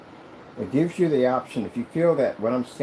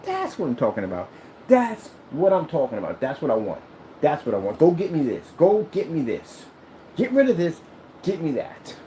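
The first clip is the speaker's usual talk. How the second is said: emphatic, punchy approval rising into commands; excited demand; 4 semitones higher than usual. Acted. Neighbor seeing the black screen and wanting one, excited. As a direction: demand it like a thrilled customer.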